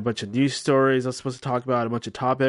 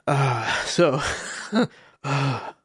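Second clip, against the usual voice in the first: usual speaking voice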